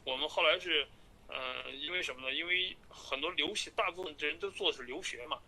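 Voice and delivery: phone call. Real, not acted. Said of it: "听一下吧".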